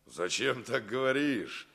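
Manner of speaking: slow soft whisper. Acted. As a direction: whisper it slowly. Gentle reply to farewell.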